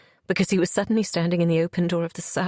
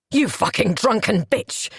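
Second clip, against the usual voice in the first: screamed insult. Acted. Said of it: "he screamed into my face".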